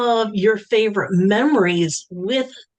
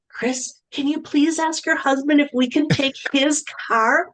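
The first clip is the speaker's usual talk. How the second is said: asking sweetly; 5 semitones higher than usual. Retold or imitated. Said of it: "she would ask so nicely".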